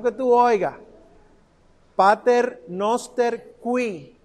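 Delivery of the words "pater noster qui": "qui" said fully as kwi, each letter sounded; clear letters. Shown as a demonstration. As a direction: spell out "qui" with the u heard. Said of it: "Recuérdense pronunciar las letras". ("qui" con la u pronunciada)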